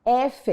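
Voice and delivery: "F" said as efe; Spanish F. Shown as a demonstration. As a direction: give "F" the Spanish name efe. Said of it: "Repeat after me".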